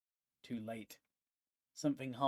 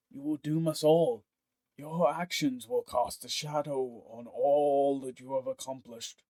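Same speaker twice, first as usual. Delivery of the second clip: solemn warning. Acted. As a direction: weigh every word of the judgment. Marek condemns Pontifex.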